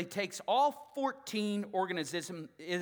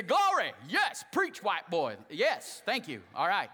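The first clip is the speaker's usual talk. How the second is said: congregation response; 5 dB louder, slower than usual. Shown as a demonstration. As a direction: shout back like the congregation. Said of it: "lift your hand and say".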